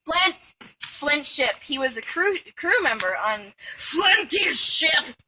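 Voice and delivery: a rough, not very good Scottish comedian voice; hint of Billy Connolly's Scottish burr; Billy Connolly impression. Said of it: "That's my Billy Connolly impression".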